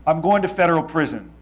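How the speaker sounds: retold loud declaration to his parents at dinner. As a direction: announce it so nearby tables turn. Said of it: "I said it very loud".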